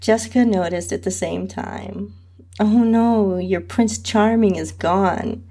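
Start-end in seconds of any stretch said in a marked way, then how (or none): 2.6-5.4 teasing fake pout, drawn out slowly; mock sad. Friend teasing her about the guy leaving, mock sad. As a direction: play at being sorry for her. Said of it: "she joked while giving me a fake sad face".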